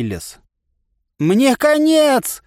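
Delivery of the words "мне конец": a long, high, drawn-out despairing howl; wailing cry. A narrator's reading. Narrator wails that he is doomed, despairing howl. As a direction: howl it out in despair, slow and loud. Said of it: "возопил я так".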